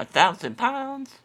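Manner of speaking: high, surprised question. Real, not acted. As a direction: react in disbelief. Caller shocked by weight limit.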